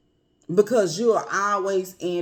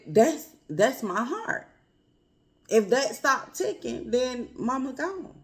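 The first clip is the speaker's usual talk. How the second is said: lightly voiced mother, slowed, trailing off; mother's gentle voice; 4 semitones higher, slower than usual. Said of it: "And she said".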